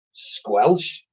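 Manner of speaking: high, loud, slow order. A narrator's reading. Boy ordering the jelly baby to leave. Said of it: "ordered Ned".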